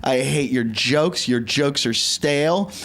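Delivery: slow, measured mock disdain; imitating deliberate contempt; retold hateful woman. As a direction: list each grievance slowly and pointedly. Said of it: "I watch, she goes".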